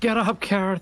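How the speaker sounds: desperate, urgent, pleading, high-pitched shout. Playing a character in a tabletop game, calling to a fallen ally, desperate shout. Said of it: "Desperate shout".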